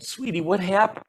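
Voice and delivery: retold soothing check-in with a child; tender father. Father asks his crying five-year-old what happened, tenderly.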